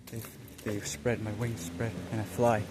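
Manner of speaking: soft, slightly low, measured divine voice; hushed, solemn words with long pauses; voice of the Spirit. Retold or imitated. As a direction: speak gently as the Spirit to a son. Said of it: "The Spirit said".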